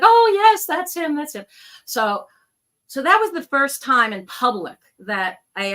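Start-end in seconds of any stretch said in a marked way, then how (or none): 0.0-1.4 imitated tearful mother. Mother recognizing her son from the medium's description, imitated tearful outburst. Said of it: "the waterworks start".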